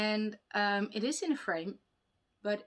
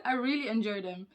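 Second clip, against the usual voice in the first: words a bit strained, struggling to talk; with a sore jaw; 3 semitones higher, 5 dB louder than usual. Real, not acted. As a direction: speak carefully through an aching jaw. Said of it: "Whew, talking is hard today".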